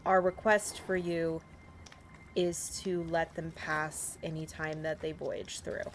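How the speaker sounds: measured, solemn in-character appeal; formal plea. Acted. Player pleading with the fish for safe passage, formal plea. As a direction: speak it as a slow, careful petition.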